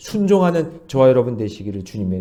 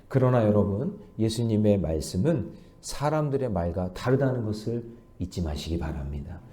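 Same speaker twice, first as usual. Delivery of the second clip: ordinary talk, nothing marked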